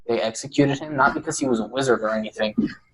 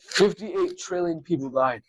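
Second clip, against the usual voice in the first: grave narrator; 5 semitones higher, slower than usual. Acted. Mock grave war story.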